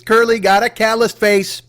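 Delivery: slow sing-song playground taunt; schoolyard taunt. Pretend. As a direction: chant it at a classmate. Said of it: "make that your new taunt".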